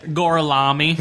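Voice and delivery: drawn-out mock Italian Gorlami; fake Italian accent. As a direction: stretch Gorlami out like a bad Italian. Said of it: "fake Italian name".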